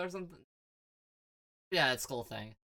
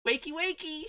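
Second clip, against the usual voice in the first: sing-song wake-up call. Acted. Joker waking a man up.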